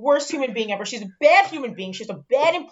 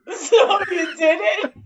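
mock eager; 8 semitones higher, 4 dB louder, much slower than usual. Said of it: "we were like".

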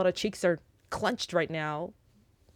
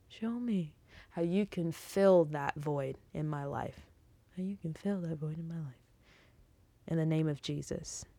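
heartfelt prayer. Real, not acted. Leads an unscripted prayer.

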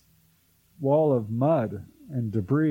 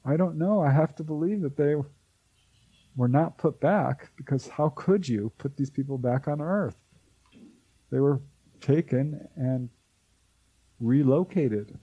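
tearful; 3 semitones higher than usual. Retold or imitated. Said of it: "she started tearing up".

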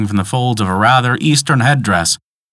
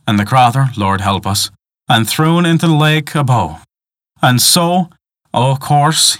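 lightly voiced Irish countrywoman storyteller; old woman telling a legend. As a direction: spin a local legend as an old guide. Old woman tells her legend.

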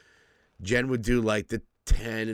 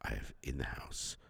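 lower, slow and soft like a weary log entry; mock castaway log; 9 semitones lower, 8 dB quieter, slower than usual. Mimicking a lonely astronaut's log, low and slow. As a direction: drone it like a stranded astronaut.

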